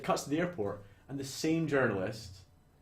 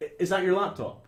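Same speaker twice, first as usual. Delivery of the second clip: laughing; 6 semitones higher, 5 dB louder than usual. Retold or imitated. Policeman asks, laughing.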